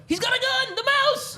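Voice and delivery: very high mock alarm; mock panic shout. Storyteller pranks the bar crowd with a very high mock alarm. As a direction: scream it like a fake emergency. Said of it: "And I just went".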